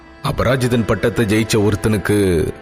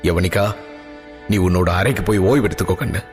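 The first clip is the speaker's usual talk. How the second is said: low, gentle fatherly tone; affectionate; 5 semitones lower, faster than usual. Acted. Father sends his daughter to rest, lower and gentle. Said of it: "அன்பாக".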